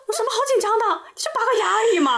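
high, laughing mock doctor brushing it off; dismissive doctor. Dentist shrugs off nervous patient, high laughing mock dismissal. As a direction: toss it away like it's nothing, laughing. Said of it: "他说".

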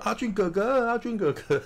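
put-on high child's voice crying out a name; a high, pleading call to a fallen big brother. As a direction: call him like a scared little kid. Child calls out to fallen hero.

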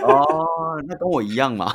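laughing. Real, not acted. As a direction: laugh through the words. Laughs at cartoon admission.

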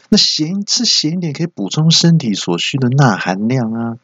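stubborn excuse. Retold or imitated. Stubborn mom justifies salty food.

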